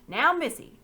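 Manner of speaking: butter up the lord for a sale; fawning slaver. Acted. Pug flattering the lord to sell the boy, fawning.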